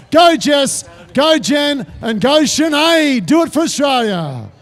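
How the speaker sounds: rousing cheer for the team. Real, not acted. Announcer sending wishes to marathon runners, rousing cheer. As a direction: call each name out to spur them on.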